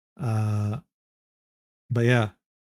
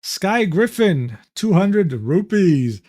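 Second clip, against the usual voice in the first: put-on Indian accent; 3 semitones higher, much slower than usual. Mimicking Indian scam caller.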